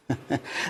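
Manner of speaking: brief, breathy little chuckle, very soft. Real, not acted. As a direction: let out a quiet laugh under the breath. Chuckles at his own remark.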